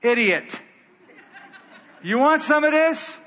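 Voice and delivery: high jeer broken by laughter; mocking laughing taunt.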